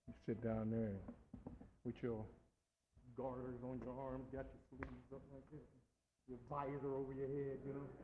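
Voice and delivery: low, soft, sneering aside; hushed miser picture. Retold or imitated. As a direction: paint the stingy miser quietly. Mocking the miser at his desk.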